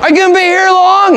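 put-on high, bright old southern man calling out. Old man greeting Fred at his table, high old-timer voice.

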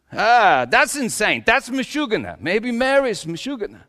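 high-pitched protest; exasperated disbelief. Acted. Acted disbelief at Mary's story.

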